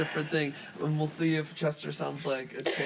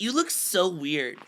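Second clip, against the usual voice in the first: mildly mocking fish; slower than usual. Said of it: "I'll read responses as voices".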